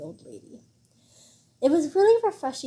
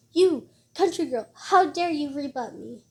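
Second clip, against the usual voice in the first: angry grandmother; 4 semitones higher, 4 dB louder than usual. Acted. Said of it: "Zhao Shumi's angry eyes widened".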